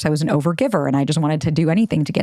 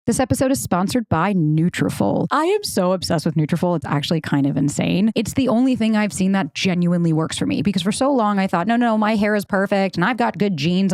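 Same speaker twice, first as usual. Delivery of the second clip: lively host-read ad, key words punched; chatty podcast sponsor read; 3 semitones higher than usual. Real, not acted. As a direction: sell it to listeners like a personal endorsement.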